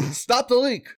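high, giggly echo; laughing repeat. Retold or imitated. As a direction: laugh through the title. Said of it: "He titled it".

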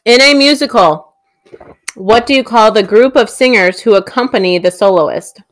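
reading through a mouthful of food; mouth full. Real, not acted. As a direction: talk round a bite of food. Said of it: "I'm gonna talk with my mouth full".

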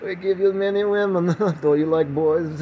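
slow, loud mock Transylvanian accent; hammed-up Transylvanian fan voice. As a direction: greet heartily in a drawn-out Transylvanian accent. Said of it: "emails going ... here in Transylvania".

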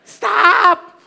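sharp high shouted stop; mock yell. Pastor acting the quarrel's end, loud high shout. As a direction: bark it to end the fight.

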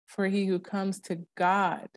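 For he who comes to God drawn out slowly, stress on God; slow emphatic reading. Shown as a demonstration. Showing a friend how she reads scripture, slow and weighted. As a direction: lean on God at the end. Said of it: "I use inflections when I talk".

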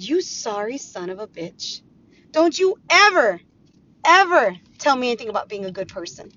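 sudden loud outburst on don't you ever; angry retort. Retold or imitated. Telling off her ex-husband, angry and loud. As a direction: snap back at him in fury.

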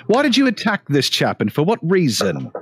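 put-on interrogator with an English accent; English accent, stern questioning. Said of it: "I should stick with an accent".

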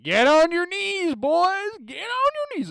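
high, hollered drill order; loud, drawn-out coach shout; yelling coach. Retold or imitated. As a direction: bellow it like a coach at rookies. Acts the coach ordering rookies down.

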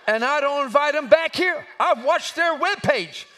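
high, loud pulpit indignation; forceful preaching. Real, not acted.

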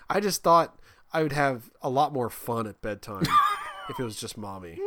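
put-on laughing through the kid's line; laughing child. Daughter giggling her honest reason. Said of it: "And she's like".

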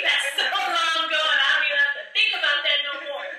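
breezy, shrugging voice of her past self; dismissive old self. Retold or imitated. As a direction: wave it off like it's ancient history. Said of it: "that part of me is like".

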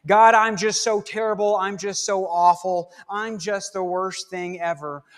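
lightly mocking self-deprecating prayer; mock self-pitying prayer. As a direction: mimic a grovelling churchgoer. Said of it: "not very holy to say out loud to God".

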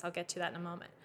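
ordinary delivery

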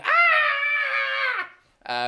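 high, long sustained wail; imitated baby scream. Imitating the baby left with his wife, screaming. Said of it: "with the baby going".

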